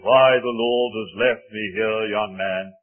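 imitated elderly preacher, weighty and emphatic; old evangelist's bass voice. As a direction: lightly put on an old evangelist addressing a youngster. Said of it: "he had a very fine bass voice".

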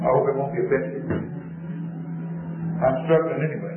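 hoarse, strained sore throat voice; talking through a sore throat. Real, not acted. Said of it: "I got a sore throat".

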